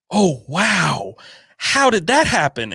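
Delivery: high, hammed-up wow of a scripted co-host; mocking a podcast co-host's staged surprise, pitched high; mock fake amazement. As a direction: play the fake-surprised interjection. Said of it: "they're like".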